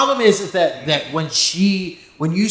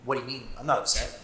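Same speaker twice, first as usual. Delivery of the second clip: Dylan's fake calm; 4 semitones lower, faster than usual. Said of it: "the face and the voice so well".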